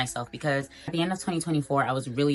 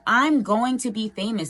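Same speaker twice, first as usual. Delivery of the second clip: higher, mock-confident young girl's declaration; Kim Kardashian; 7 semitones higher than usual. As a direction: lightly imitate a famous old clip. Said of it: "That infamous clip of Kim Kardashian".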